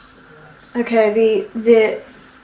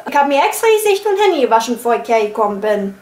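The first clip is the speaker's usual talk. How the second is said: put-on Berlin accent; faster than usual. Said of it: "with a Berlin accent".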